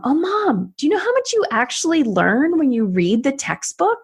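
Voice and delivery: high, eager rush of discovery; excited discovery. Retold or imitated. Excited daughter tells her mom about textbooks. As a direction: gush to mom like a kid who just found something.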